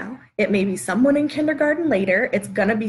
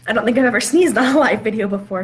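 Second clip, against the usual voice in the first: laughing while talking; 5 dB louder, faster than usual. Real, not acted. After sneezing on live video.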